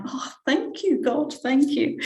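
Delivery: high, bright rush of thanks, retold; overjoyed thanks. Retelling her delighted reply to the request, high and excited. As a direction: gasp out thanks with sudden joy. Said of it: "I was like".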